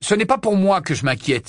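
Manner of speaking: Harry protesting he fears for them; Harry exclaiming. A narrator's reading. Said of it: "s'exclama Harry".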